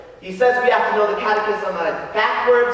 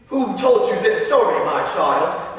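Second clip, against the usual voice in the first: taken-aback priest; slower than usual. Acted. Priest asks Frankie who told it, taken aback. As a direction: demand the source, then soften. Priest reacts to rude story.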